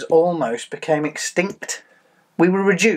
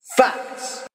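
high, breathy half of the jingle; high jingle word; 9 semitones higher than usual. Shown as a demonstration. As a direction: hit your half of the catchphrase up high. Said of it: "you go facts".

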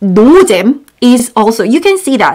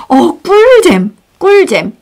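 higher, excited praise; delighted; 6 semitones higher, much faster than usual. Retold or imitated. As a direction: gush about a fun game. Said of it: "you can say".

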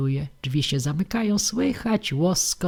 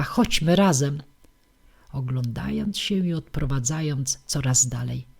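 ordinary delivery

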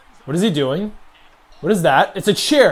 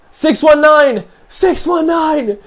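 high, loud, slow chant of the move; excited call; 10 semitones higher, 5 dB louder, much slower than usual. Real, not acted. Player hyping his finisher, excited shout. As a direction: cheer the move name out.

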